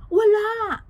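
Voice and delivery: a sudden loud, high cry of denial; loud exclamation; emphatic no. Real, not acted. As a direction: shoot the idea down hard. Host exclaims a flat denial.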